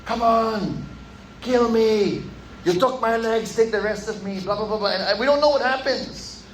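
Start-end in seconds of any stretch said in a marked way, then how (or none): 0.0-4.4 imitating a scream at God, only a little raised; mock yell daring God, held well short of screaming; retold defiant scream. Lieutenant on the rigging challenging God in a storm, mild mock scream. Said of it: "he's screaming at God".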